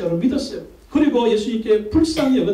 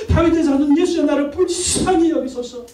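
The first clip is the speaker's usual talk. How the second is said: crying out; 5 semitones higher than usual. Retold or imitated. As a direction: imitate a beggar's cry, slowing on the plea. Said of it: "나처럼 부르짖으라는 거예요".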